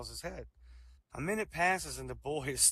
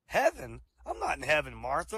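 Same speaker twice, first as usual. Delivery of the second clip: surprised correction; 5 dB louder than usual. Acted.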